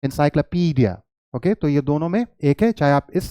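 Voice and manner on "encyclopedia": encyclopedia as "in-sy-kla-PEE-dia"; correct pronunciation. Shown as a demonstration. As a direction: repeat encyclopedia with a reduced "kla". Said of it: "this is".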